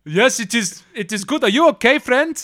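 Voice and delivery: cheery vendor voice. Acted. GM voicing vendor to circus boy.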